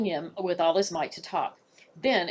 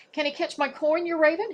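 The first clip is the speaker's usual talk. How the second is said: put-on higher, eager voice of an old guard; eager warder; 9 semitones higher than usual. Warder eagerly dares the raven with a coin. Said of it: "he asked".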